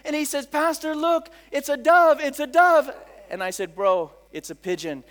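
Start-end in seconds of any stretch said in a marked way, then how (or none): 0.5-2.9 higher, louder wide-eyed amazement; excited convert. Retold or imitated. Newly baptized man to his pastor on opening his eyes, excited. 3.8-5.0 deadpan correction. Retold or imitated. Pastor deflates the man's wonder.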